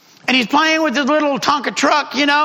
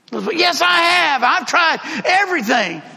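put-on insistent boy; 4 semitones higher than usual. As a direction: insist like a frustrated kid, pitched up.

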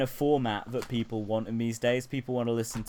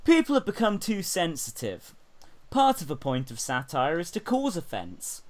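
mock quote in a higher-pitched voice; Jan Ravens; 7 semitones higher than usual. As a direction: read it out high, imitating an aggrieved impressionist. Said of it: "almost verbatim quote from Jan Ravens".

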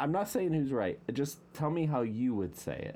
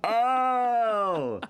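surprised; 10 semitones higher, 6 dB louder, much slower than usual. Real, not acted. Realizing the name, laughing.

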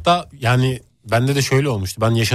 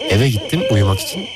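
breathy storytelling. Acted. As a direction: breathe every word like a ghost story. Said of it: "Ama ses niye böyle nefesli böyle?".

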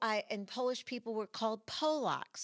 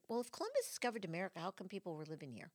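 put-on curious child; 6 dB quieter, much faster than usual. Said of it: "said to the teacher".

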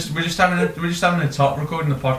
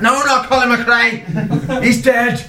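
high, exasperated Irish correction; forceful Irish accent; 9 semitones higher, slower than usual. Pretend. Detective correcting their mistake, high forceful Irish accent. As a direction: insist in a hammed-up Irish accent. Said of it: "He's so forceful".

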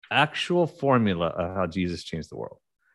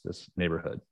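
ordinary talk, nothing marked

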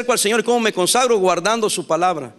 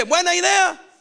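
retold cheer; 10 semitones higher, slower than usual. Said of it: "Y yo dije".

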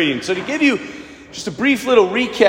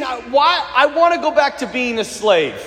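lightly whining Israelite; a touch of grumbling, imitated; mock complaining; 2 semitones higher than usual. Israelites wishing they were slaves again, mock complaining. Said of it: "They're complaining".

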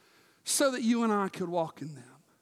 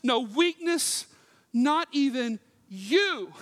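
ordinary talk

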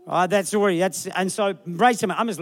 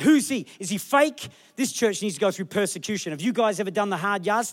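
mock accuser; 2 semitones higher than usual. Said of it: "Holds up a picture".

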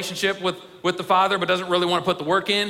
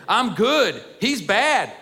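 self-righteous boast; 4 semitones higher, much slower than usual. Acted. Older son boasting to his father, smug and self-righteous. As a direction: play the pompous good son.

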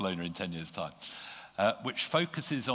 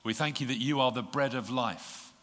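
prayer. Real, not acted. Leads prayer.

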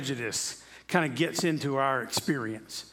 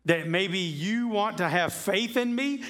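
Jesus answering; 5 semitones higher than usual. Retold or imitated. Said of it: "Jesus says".

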